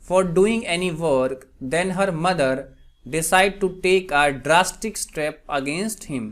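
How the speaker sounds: very slow, spaced-out example reading; slow dictation. Shown as a demonstration. Teacher gives students an English translation, slow dictation. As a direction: read it out slowly, phrase by phrase. Reads example sentence slowly.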